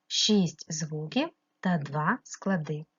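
slow, each number set apart; slow counting. Shown as a demonstration. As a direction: count it out slowly for a child. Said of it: "teacher counts slowly for pupils". (повільно, розставляючи числа)

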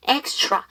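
careful, clear R in "extra"; teacher modelling the TR in "extra"; precise R sound. Shown as a demonstration. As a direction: say "extra" with an exact "tr" cluster. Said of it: "R 사운드 조금 더 정확하게 하기 위해서".

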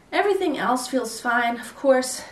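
out of breath, pushing words out; short on air, late pregnancy. Real, not acted. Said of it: "You see how I'm out of breath".

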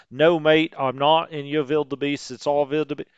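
lightly put-on, bad Australian accent; badly faked Aussie protest; terrible Australian accent. Aussies argue with the Brits over planes, badly faked Australian accent. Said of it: "That's a terrible Australian accent".

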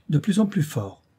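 exasperated exclamation. Acted. Baroness cutting off the ghost talk, exasperated cry. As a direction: throw up your hands in protest. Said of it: "s'écria la baronne".

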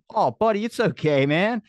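high-pitched sympathetic reassurance; retold consoling. Uncle retelling consoling his upset nephew, high and sympathetic. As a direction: replay comforting a let-down kid.

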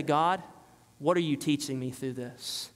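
hushed sincere question to God; prayer of faith. Shown as a demonstration. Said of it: "That's a prayer of faith".

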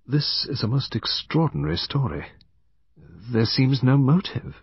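lightly voiced man with precise tones; slow, precise. A narrator's reading. Man doubts the confession for lack of motive, slow and precise. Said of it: "said slowly in his precise tones".

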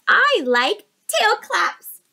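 slow, loud friendly dolphin; drawn-out happy dolphin. Acted. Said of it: "said the dolphin".

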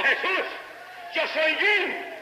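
high acted call, slowing on the name; retold cry. Preacher voices Jim calling out to Jesus, retold cry. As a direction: imitate a high-pitched cry to heaven. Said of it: "volvió y gritó".

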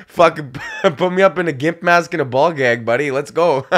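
laughing through a mock tough boast. Joking about a gimp mask, laughing. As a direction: grin and laugh it out.

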